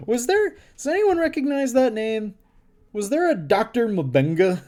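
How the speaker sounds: surprised, breaking out of the reading; surprised aside at a name. Real, not acted. Surprised out-of-story question.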